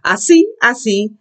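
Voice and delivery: "Así" stressed on the final "í"; accent the I. Shown as a demonstration. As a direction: lean on the last syllable of "así". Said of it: "Accent the I".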